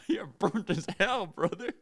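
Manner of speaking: high, slow southern gentleman imitation; old southern gentleman. Old gentleman to a sunburnt stranger, imitated southern drawl. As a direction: draw it out loud like an old southerner. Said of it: "the old southern white gentleman walks in".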